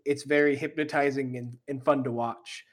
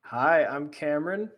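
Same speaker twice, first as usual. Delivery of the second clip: sultry perfume ad; 3 dB louder than usual. Acted. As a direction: purr it like a perfume ad. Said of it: "you can listen to my sultry voice".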